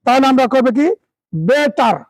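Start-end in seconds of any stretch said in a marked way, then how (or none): 1.4-2.0 Bengali-style বেটার with a hard t; Bengali accent. Shown as a demonstration. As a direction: say বেটার as plain Bengali "be-tar". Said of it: "বাঙালি সব আমরা কিভাবে pronunciation করি?". (বাঙালি উচ্চারণে বেটার)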